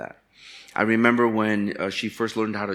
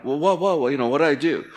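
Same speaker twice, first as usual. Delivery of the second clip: higher, defensive "what did I do"; mock innocent surprise; 6 semitones higher, 3 dB louder, faster than usual. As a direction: play the clueless husband, caught off guard. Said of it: "I'm like".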